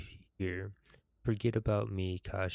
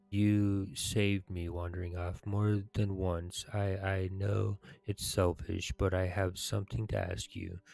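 measured, solemn story narration with pauses; dramatic quest reading. Acted. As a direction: read the quest aloud like a heroic tale. Reads quest dialogue aloud in character.

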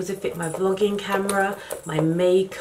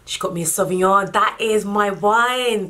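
delighted gasp; 3 semitones higher, 5 dB louder than usual. Real, not acted. Finding her favourite wine.

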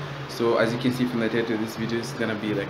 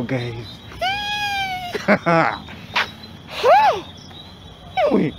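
muffled speech behind fabric; through a cloth face mask; 7 semitones higher, 7 dB louder than usual. Real, not acted. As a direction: mouth covered by mask. Seen 2: Selfie speaker wears a cloth mask over mouth and nose throughout.

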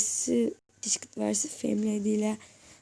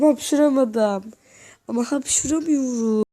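frustrated; 3 semitones higher, 7 dB louder than usual. Real, not acted. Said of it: "Oğlum sinirim bozuldu".

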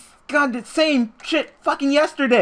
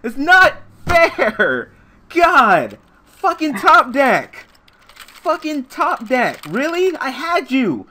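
bitter rage; 4 semitones higher, 5 dB louder, slower than usual. Real, not acted. Losing after opponent top decks.

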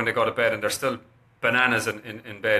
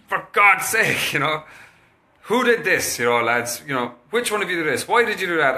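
higher, exasperated scolding of the lads; 4 semitones higher than usual. Retold or imitated. Father scolding sons over books on the floor, exasperated. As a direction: tell off the boys for the mess. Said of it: "what I would normally have said was".

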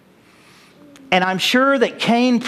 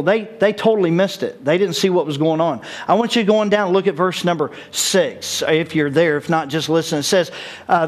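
usual speaking voice

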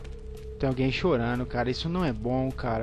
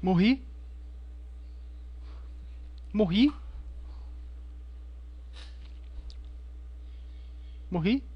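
shocked, unsure if dead; stunned disbelief; 7 semitones higher than usual. Real, not acted. Confused after dying.

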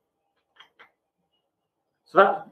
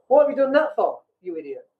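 impatient, bossy coach telling you off; half-joking bossy coach, brisk and dismissive; blunt coaching; 3 semitones higher than usual. Shown as a demonstration. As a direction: scold them then hand over the fix. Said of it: "my kind of coaching is more".

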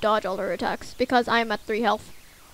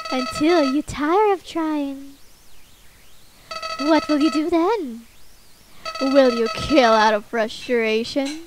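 Flowey voice; 3 semitones higher than usual. Acted. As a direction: drag out the sarcasm. Flowey monologue.

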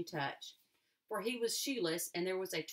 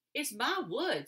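surprised; 6 semitones higher, 6 dB louder than usual. A narrator's reading. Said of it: "surprised by the question".

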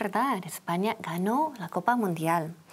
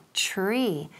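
whispered tree; 3 semitones lower than usual. Shown as a demonstration. Teacher whispering the word for students to repeat. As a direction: breathe tree out with no voice. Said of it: "So repeat".

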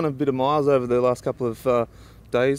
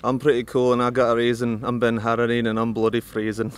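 light attempt at a Scottish accent; rhythmic rap-like line in a loose Scottish accent. Shown as a demonstration. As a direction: have a go at a rhyming Scottish accent. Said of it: "your name in your best Scottish accent".

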